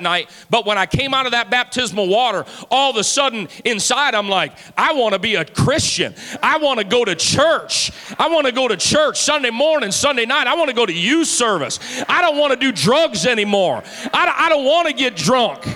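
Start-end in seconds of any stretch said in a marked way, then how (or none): 4.8-7.9 light up, suddenly wanting it; eager yearning. Retold or imitated. Pastor voicing his newly baptized self, eager and joyful. 8.2-15.6 bubbling over with new desire; joyful eagerness. Retold or imitated. Pastor voicing his newly baptized teen self, joyful and eager.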